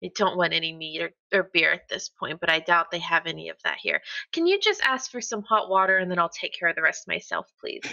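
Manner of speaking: sweet, gentle request to friends; sweetly. Acted. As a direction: ask kindly, like talking to a close friend. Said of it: "she says it very sweetly when she's talking to her friends".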